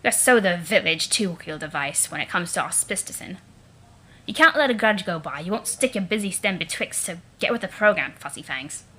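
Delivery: lightly voiced snooty Eridan; a hint of a sneering troll prince. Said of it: "And now my Eridan voice".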